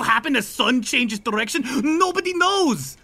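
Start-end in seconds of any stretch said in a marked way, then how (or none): 1.8-3.0 ominous musing. Acted.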